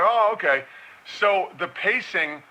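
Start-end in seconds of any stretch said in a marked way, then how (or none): 0.0-0.6 mock surprise. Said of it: "then they're like".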